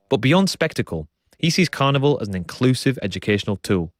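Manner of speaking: measured, scripted radio presenter delivery; documentary narration. A narrator's reading. Presenter introducing the samba school story to listeners, documentary narration.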